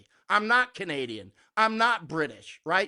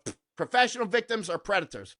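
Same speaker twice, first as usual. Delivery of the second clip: scoff, then state it flatly; a curt dismissive retort; dismissive comeback; 3 semitones higher than usual. Shown as a demonstration. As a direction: brush it off with a scoff. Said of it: "just go".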